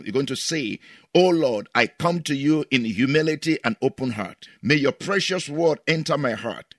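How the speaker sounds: measured prayer voice, earnest; prayer leader's voice; leading prayer. Acted. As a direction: pray it aloud for the listeners. Leads congregation in prayer.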